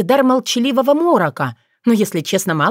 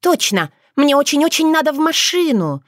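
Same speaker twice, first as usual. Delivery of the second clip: dazed vixen mumbling; 7 semitones higher than usual. A narrator's reading. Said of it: "пробормотала она".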